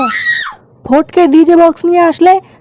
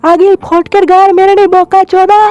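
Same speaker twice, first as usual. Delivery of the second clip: furious; 3 semitones higher than usual. Acted. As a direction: yell to beat him up. Ordering a beating.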